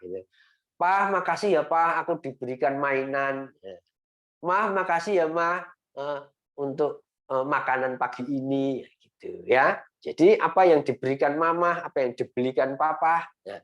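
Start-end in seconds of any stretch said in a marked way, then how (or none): 0.8-3.5 put-on child thanking dad. 4.5-8.9 put-on child thanking mom.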